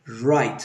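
"right" with a soft, untrilled R; soft English R. Shown as a demonstration. Teacher demonstrates the R for learners, soft "right". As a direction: ease gently into the R of "right". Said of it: "Todo va suavecito".

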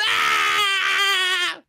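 short scared shriek; scream. Real, not acted. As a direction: yelp in fright. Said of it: "Did you guys hear that scream".

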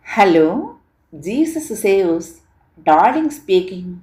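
a gentle, sugary phone greeting; sweet voice. A narrator's reading. Young woman answering the phone, lightly voiced sweet greeting. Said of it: "ఒక sweet voice వినిపించింది".

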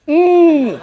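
loud, high hum pushed out through the nose; long straining "mmm" with all air through the nose; forced nasal hum. Shown as a demonstration. Teacher demonstrating air pushed out the nose, loud hum. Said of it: "코로 밀어내".

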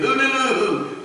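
high, drawn-out mimicked hallelujah; garbled singsong hallelujah, imitating him; imitated hallelujah whoop. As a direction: stretch out his hooting hallelujah, slow and high. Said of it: "that's the way he said hallelujah".

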